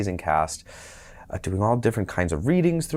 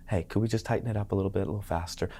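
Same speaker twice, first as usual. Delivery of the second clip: quick director's note; 7 dB quieter, faster than usual. Retold or imitated.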